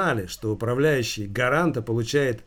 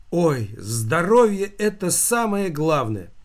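slow, higher wailing lament; 5 semitones higher, 4 dB louder, slower than usual. A narrator's reading. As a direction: fuss over it like a worried aunt. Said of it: "запричитала Фёдорова". (причитая, медленно и выше)

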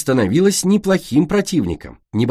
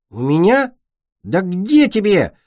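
mocking; 8 semitones higher, 3 dB louder than usual. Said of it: "усмехнулось Солнышко".

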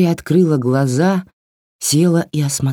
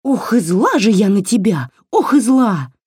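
higher squeaky doll complaining; 7 semitones higher than usual. Acted. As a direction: squeak it like an angry little doll. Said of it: "пищала кукла". (писклявый сердитый голосок)

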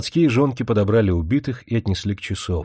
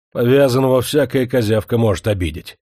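укоряюще; 3 semitones higher, 5 dB louder than usual. Acted. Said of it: "укоряюще сказал".

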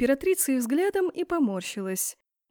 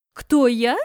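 louder, indignant screech; hysterical shriek; 7 dB louder than usual. A narrator's reading. Empress screams at girl in library, hysterical. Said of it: "истерично завизжала та".

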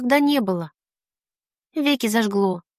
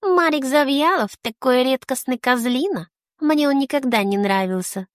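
affected whiny drawl; 2 semitones higher than usual. Retold or imitated. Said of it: "скроила плаксивую мину и жеманно протянула".

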